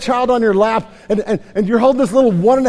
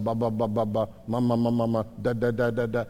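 low monotone strings of repeated syllables; imitating baby babble; 8 semitones lower, 7 dB quieter than usual. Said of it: "seen kids sit around going".

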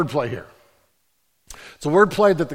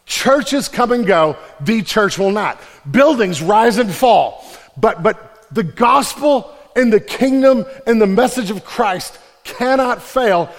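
louder, slow, building proclamation; rising preaching; 6 semitones higher, 7 dB louder, slower than usual. Real, not acted. Pastor proclaiming to the congregation, rising preaching. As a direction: build the declaration slowly to its peak.

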